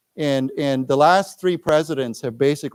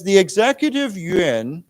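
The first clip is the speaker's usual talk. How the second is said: slow read-aloud; 4 semitones higher, 3 dB louder than usual. Shown as a demonstration. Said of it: "let's read this".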